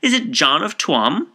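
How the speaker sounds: high, loud incredulous question; astonished cry. A narrator's reading. Kernan checks which McHale is meant, astonished cry. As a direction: ask it amazed, lifting the pitch. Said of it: "cried Mister Kernan".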